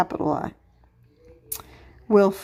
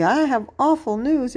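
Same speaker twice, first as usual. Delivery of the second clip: higher-pitched, said with conviction; passionate exclamation; 5 semitones higher than usual. Shown as a demonstration. Teacher showing pupils an exclamation point, said passionately.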